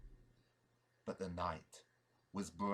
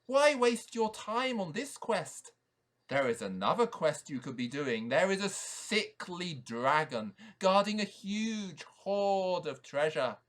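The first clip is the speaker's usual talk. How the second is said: goblin voice; 4 semitones higher, 5 dB louder than usual. Acted. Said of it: "said the goblin".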